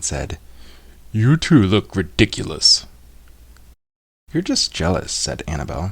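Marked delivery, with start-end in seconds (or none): 1.1-2.9 a hint of a teasing boy; mocking kid. A narrator's reading. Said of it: "Nate pointed and laughed". 4.3-5.1 put-on indignant girl. A narrator's reading. Annabelle retorts to Nate.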